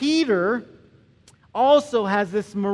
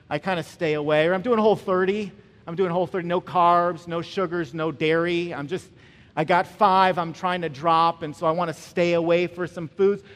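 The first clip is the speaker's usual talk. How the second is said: mock dieter; 4 semitones lower than usual. Mocking a modern dieter.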